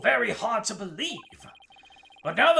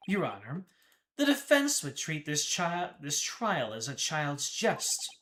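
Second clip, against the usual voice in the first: low brooding prosecutor voice; edgelord voice; 3 semitones lower, 4 dB quieter than usual. Acted. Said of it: "I've just been using my edgelord voice for him".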